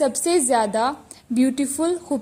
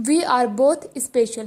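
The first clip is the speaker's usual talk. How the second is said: slow dictation reading; much slower than usual. Shown as a demonstration. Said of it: "teacher reads the sentence slowly".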